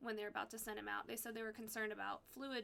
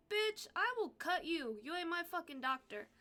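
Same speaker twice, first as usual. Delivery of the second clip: hammed-up angry comeback; mock threat; 7 semitones higher, 5 dB louder than usual. Doctor snaps at her.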